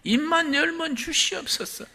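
high, pleading beggar's cry; beggar's whine. Retold or imitated. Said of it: "걸베이 삼신 걸려가지고".

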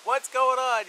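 high, confused rising whats; jolted awake and baffled; startled waking friend. Retold or imitated. Friend woken at night asking what happened, startled. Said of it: "he's just waking up".

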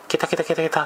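lightly mimicked high cackling laugh, ケタケタケタケタ; mock the lady's cackle, not full voice; a hint of a cackling laugh; imitated cackle. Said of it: "なんかこう笑い出したわけ".

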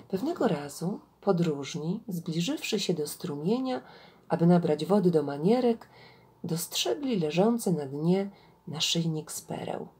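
measured storyteller reading with swelling intonation; story narration. Acted. Gawędziarka reads an Indian fable to listeners, expressive story narration. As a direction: read a fable aloud, deliberately phrased.

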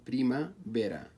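بريمافيرا broken into its syllables; split into syllables. Shown as a demonstration. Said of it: "لو سوينا تقسيم له". (بريمافيرا مقسمة صوتيًا)

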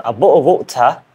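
drilled British "bottle of water", open final vowel; British accent attempt. Shown as a demonstration. Learner practising number two, British accent attempt. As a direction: practise a non-native British accent, phrase by phrase. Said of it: "I am learning British accent".

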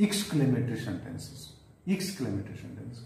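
Exclamatory sentences said slowly, syllable by syllable; slow dictation. Shown as a demonstration. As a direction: drill the term slowly. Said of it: "teacher dictating term".

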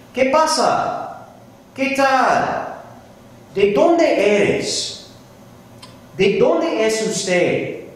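patient teacher modelling slow Spanish; slow model phrases. Shown as a demonstration. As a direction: say each phrase slowly and clearly so the class can copy it. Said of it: "you repeat me as I'm saying these words".

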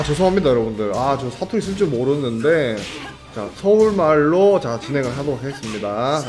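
ordinary talk, nothing marked

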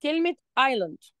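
island pronounced "ayland", silent s; island without the s. Shown as a demonstration. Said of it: "الصح بتاعها ايه؟ ايلاند". (island بدون نطق حرف الإس)

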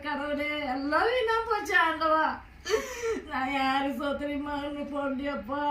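weeping lament. Acted. Wife crying over toys bought.

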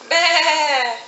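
bleating like a sheep. Shown as a demonstration. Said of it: "What does the sheep say?".

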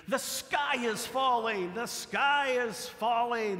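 high, slow hammed-up hen cry; panicked hen. Preacher voices Henny Penny crying out to the congregation, panicked hen voice. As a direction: wail it like a frantic little hen. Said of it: "she starts to scream".

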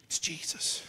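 unvoiced whispered "It's Jesus". Real, not acted. Preacher whispering to young people. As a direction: breathe the name as a secret.

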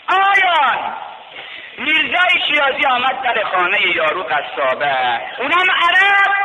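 high, loud preacher's cry; impassioned pulpit chant; full-force preaching. Acted. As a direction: lift the story into a sermon cry.

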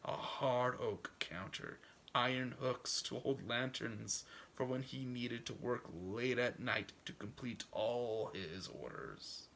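put-on measured, folksy old farmer's monologue, softly wistful in places; story narration. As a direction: read it as a dreamer's unhurried storytelling. Reads old man's monologue.

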